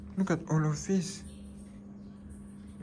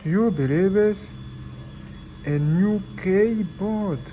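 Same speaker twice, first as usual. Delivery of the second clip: excited disbelief; 4 semitones higher, slower than usual. Real, not acted. Thrilled by the new keyboard.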